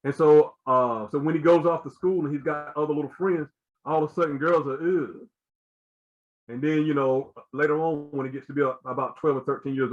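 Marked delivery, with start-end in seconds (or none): 4.7-5.3 drawn-out groan of mild disgust; mock disgusted "ugh". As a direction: imitate a little boy grossed out. Boys' disgust at girls, acted.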